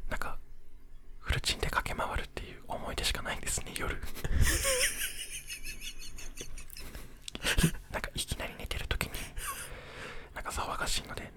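ひそひそ声. Real, not acted. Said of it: "ひそひそ声で話をしていこう". (寝室でこっそり話すささやき声)

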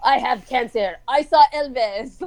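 lightly imitated Iranian accent; mock mom voice with Iranian-accented English; Iranian mom's accent. Daughter imitating mom's late revelations, light Iranian accent. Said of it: "She's like".

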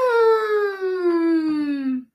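shouting through taped lips; muffled shout. Real, not acted. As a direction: yell with mouth taped shut. Mouth taped, protesting.

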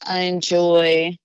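careful, bright on-air intro read; formal self-introduction. Shown as a demonstration. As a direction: present yourself like a host opening a show. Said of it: "like, a short intro".

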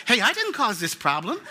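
mock protest with a laugh in it. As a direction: complain in jest, laughing. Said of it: "That's what I say".

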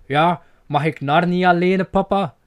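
put-on begging kid asking dad; pleading child. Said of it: "die meme dat je denkt van".

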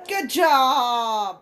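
laughing, loud shout of praise; cheering shout. Real, not acted. Player cheering the character on, laughing shout.

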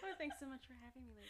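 sultry hostess voice; sweet and seductive. Pretend. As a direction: purr it like a dominatrix. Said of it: "why did that sound so sweet and seductive".

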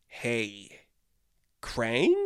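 a hint of cartoon Shredder asking his boss; lightly voiced Shredder. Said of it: "the eighties Shredder is like".

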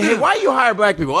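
high-pitched corporate white guy. Acted. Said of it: "sounds like a corporate white voice".

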